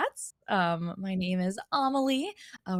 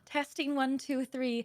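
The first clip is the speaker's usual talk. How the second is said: mic check; 6 semitones higher, 4 dB quieter, slower than usual. Shown as a demonstration. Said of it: "mic check for chat".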